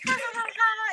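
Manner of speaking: high-pitched fake giggle; mock child laughter; imitating toddler giggle. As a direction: laugh in put-on little-kid syllables. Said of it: "and she's giggling".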